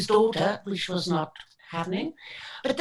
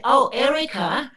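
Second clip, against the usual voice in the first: warning fan; 3 semitones higher, 4 dB louder, slower than usual. Retold or imitated. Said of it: "he actually said".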